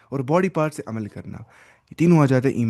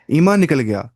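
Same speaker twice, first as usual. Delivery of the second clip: emphatic point; 2 semitones higher, 7 dB louder than usual. Acted. Teacher drives home the point.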